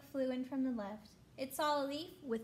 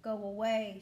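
grouchy shout; 3 semitones lower, 3 dB louder than usual. Acted. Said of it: "shouted the grouchy ladybug".

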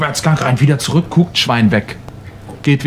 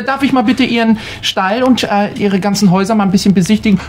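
eager official; 6 semitones higher, faster than usual. Acted. Inspector asks to see the stable.

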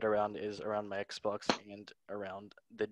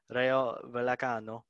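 put-on Italian accent; 4 dB louder than usual. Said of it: "Why am I saying it in an Italian accent?".

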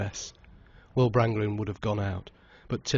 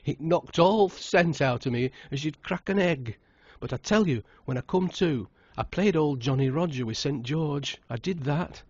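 higher, laughing through a boastful tale; an old farmer helpless with laughter at his own story; chuckling old man; 6 semitones higher than usual. A narrator's reading. Old Tom laughing through his tale to the wedding guests. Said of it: "He was shaking with laughter".

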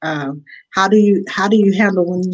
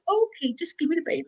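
exasperated nanny; 10 semitones higher, 9 dB quieter, faster than usual. Retold or imitated. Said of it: "I'm like".

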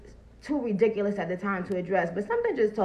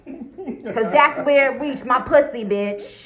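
louder and slow, driving it home; emphatic rant; 3 semitones higher, 7 dB louder, slower than usual. Real, not acted. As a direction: hammer each word out loud and slow. Emphatic rant about hair test.

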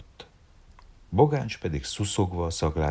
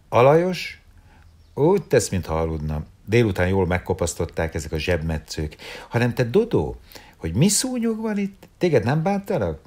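much higher, louder, chattering woman's voice; bright teasing chatter, pitched up; lively woman; 6 semitones higher, 5 dB louder than usual. A narrator's reading. Malvin teasing Dodó about the mosquitoes, high and chattering.

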